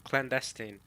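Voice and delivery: clandestine ending in a short "-steen"; recorded pronunciation. Shown as a demonstration. Streamer echoing the looked-up word, clandestine with "-steen". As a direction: say clandestine as clan-DES-teen. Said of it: "hear how the correct pronunciation".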